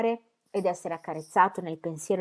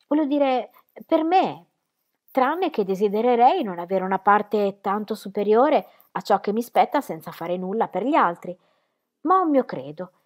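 put-on higher and louder, an earnest young woman opening her heart; earnest heroine; 4 semitones higher, 7 dB louder than usual. A narrator's reading. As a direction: confess it eagerly, voice lifted. Dorotea's earnest reply. (giovane donna fervente, voce più alta e forte)

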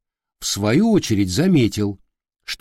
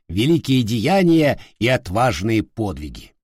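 solemn voice; 3 semitones higher than usual. Acted. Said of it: "заговорил торжественным голосом, явно передразнивая своего господина".

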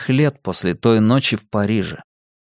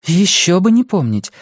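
exclaimed; 10 semitones higher, 3 dB louder than usual. Acted. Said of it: "воскликнула она".

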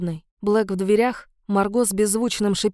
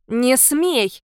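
shout; 3 semitones higher than usual. Acted. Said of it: "крикнула она Марго".

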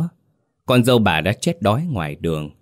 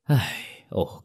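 a soft, tired sigh before speaking; weary sigh; 5 dB quieter than usual. Acted. Village chief sighs at the begging old woman, tired. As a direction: let out a sigh of exasperation. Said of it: "Lão Xuân thở dài".

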